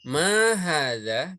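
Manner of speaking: "Ma hadza" slow and drawn out, rising at the end; questioning model. Shown as a demonstration. Teacher has the class repeat after him, questioning "Ma hadza". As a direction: ask "Ma hadza" slowly for repeating, long vowels, lifted ending. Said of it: "ikuti saya".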